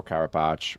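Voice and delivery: Carapace said as "cara-patch"; three syllables, Carapace rhyming with "patch"; variant pronunciation. Shown as a demonstration. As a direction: end Carapace on a "tch" sound. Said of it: "I'm not sure how it's pronounced".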